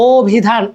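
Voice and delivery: অভিধান said as "o-bhidhan"; initial o sound. Shown as a demonstration. Teacher showing we pronounce an o, অভিধান as "o-bhidhan". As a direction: open অভিধান on a clear "o". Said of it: "ও উচ্চারণ করতেছি".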